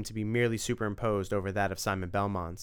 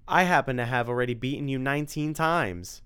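cocky boast; 4 semitones higher, 4 dB louder than usual. Acted. Tim boasting at Dracula.

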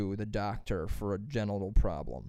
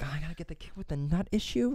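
reluctant nurse; 5 semitones higher, faster than usual. Retold or imitated.

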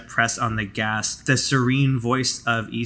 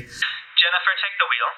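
clipped order from the captain; curt commanding; 6 semitones higher than usual. Acted. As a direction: give the order without a doubt. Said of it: "her kind of curt, commanding voice".

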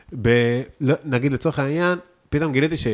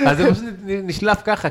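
laughing while talking; 9 semitones higher, 4 dB louder than usual. Real, not acted. Laughing after marketing joke.

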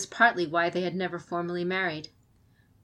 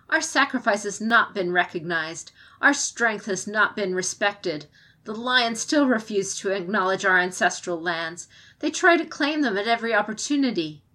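a touch louder, proud defiant clan orator; impassioned speech; 2 semitones higher, 4 dB louder than usual. Acted. Komoko defending the Kirin ways before the champion, lightly raised and defiant.

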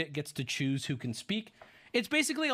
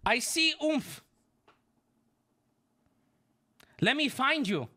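lightly voiced Asian accent, higher; a hint of an Asian accent on a teen girl; 7 semitones higher than usual. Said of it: "Why am I giving an Asian accent?".

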